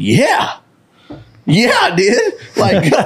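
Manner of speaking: high, giggly admission; laughing confession. Retold or imitated. Kid admitting to principal, laughing high. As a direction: blurt it out, half laughing.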